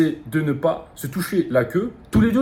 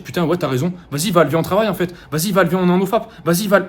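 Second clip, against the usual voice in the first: higher, eager little inner voice; light impression of an inner voice giving in, egging on; petite voix convaincue; 5 semitones higher than usual. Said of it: "la petite voix te, va te, va t'écouter". (petite voix intérieure enthousiaste, plus aiguë)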